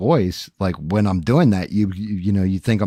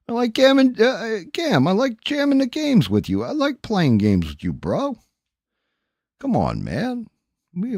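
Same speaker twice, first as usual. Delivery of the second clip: rambling mock caller, jumping much higher at times; friend calling in; 5 semitones higher than usual. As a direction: play a pushy buddy begging to game.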